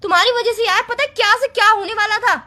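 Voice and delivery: heated, blaming tone; worked-up reproach; mild angry yelling. Acted. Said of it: "चिल्लाओ मत यार फालतू में".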